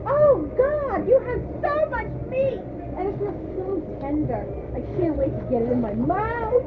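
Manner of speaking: breathy mock-seductive line reading; sultry porno read. Customer reading ad, hammed-up seductive moan. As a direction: play it like a cheesy porno. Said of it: "you're reading it like it's a porno".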